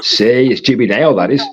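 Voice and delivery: lightly put-on Geordie lilt; Geordie accent. Streamer reading out a Scotsman's chat message, in a light Geordie accent. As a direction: slip into a playful touch of Geordie. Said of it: "I speak Geordie a lot".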